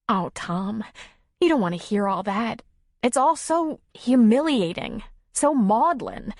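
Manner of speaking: protest, rising and slowing on the confession; embarrassed Nora. Acted. Character dialogue.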